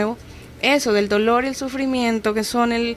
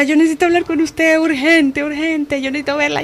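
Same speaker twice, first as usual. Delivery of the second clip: higher, louder, pressing retold plea for help; begging to see her right away, a bit higher; urgent plea; 6 semitones higher, 3 dB louder than usual. To her counselor after church, an urgent higher plea.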